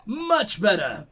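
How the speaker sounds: slow, relaxed gruff drawl; a lazy pleased "much better"; settling into Varric. Acted. Reading Varric's letter, slow and pleased. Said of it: "Here we go".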